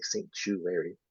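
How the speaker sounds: "sanctuary" split as sanc-CHOO-wary; broken-up sanctuary. Retold or imitated. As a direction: break "sanctuary" down with a stretched choo in the middle. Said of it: "Why is he breaking down?".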